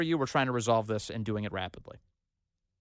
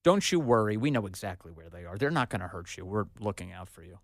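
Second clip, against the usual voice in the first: mock reassurance; 6 semitones lower than usual. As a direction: coo it like a soothing official. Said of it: "The White House didn't bother to tell you".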